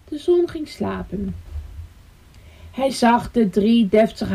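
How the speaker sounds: measured, pausing storytelling; bedtime story narration. A narrator's reading. Storyteller puts the bird family to sleep, bedtime narration. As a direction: wind the tale down towards goodnight.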